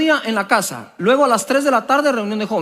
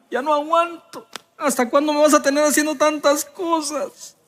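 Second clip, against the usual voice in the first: mock tearful plea, higher, like a soap opera; hammed-up telenovela prayer; 5 semitones higher than usual. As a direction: overplay the weepy complaint to God, a little higher. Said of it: "Así, así toda dramática". (súplica llorosa de telenovela, exagerada en broma)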